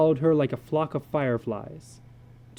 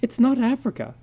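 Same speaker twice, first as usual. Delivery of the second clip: breathless; 11 semitones higher, 3 dB louder than usual. Acted. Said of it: "she said breathlessly".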